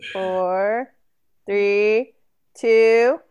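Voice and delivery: building to a slow loud cheer; countdown shout. Real, not acted. New Year countdown calling out.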